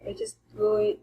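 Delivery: "going" held high and level; first tone shown on "going". Shown as a demonstration. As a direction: sing "going" on one high flat pitch. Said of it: "The first tone".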